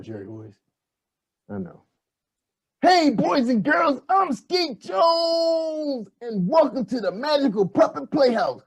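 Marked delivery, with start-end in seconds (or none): 2.8-8.6 put-on slow, stretched kids' show host greeting; drawn-out puppet host voice. Shown as a demonstration. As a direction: drag out Skeet Jones like a TV puppet. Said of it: "You messing up".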